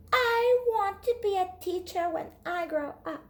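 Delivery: put-on high, bright child's voice; eager child declaring her dream; eager little girl. Lily voiced by reader.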